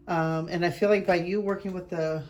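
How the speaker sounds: blocked nose from allergies; stuffed up. Real, not acted. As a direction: talk through a stuffed-up nose. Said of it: "I'm so stuffed up".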